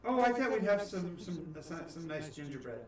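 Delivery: a hint of a doting granny; sweet hostess voice, lightly done; lightly voiced old woman. DM voices witch.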